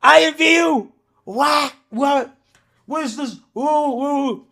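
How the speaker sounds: high, loud teasing shout at the screen; brother's mocking yell. Twin brother jeering loudly over the IMVU screen. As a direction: crow it out high and loud, gleeful and scandalised. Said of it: "He's like".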